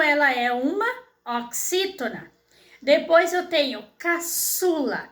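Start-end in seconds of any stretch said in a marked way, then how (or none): 4.0-5.1 "caçula" drawn out with the "çu" stressed; stress on middle syllable. Shown as a demonstration. Teacher giving pupils an example word, "caçula", stressed on "çu". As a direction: say "caçula" slowly as ca, ÇU-la. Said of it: "Qual é a sílaba mais forte?".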